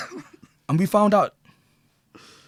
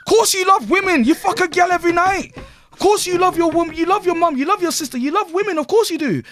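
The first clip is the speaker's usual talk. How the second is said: high, loud scornful reply; loud mocking retort; 10 semitones higher, 5 dB louder than usual. Real, not acted. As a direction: talk down to them loudly. Answering the mocked men.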